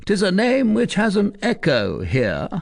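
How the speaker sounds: ominous boast. Acted. Tristan boasting to the recluse, ominous. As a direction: let the name hang.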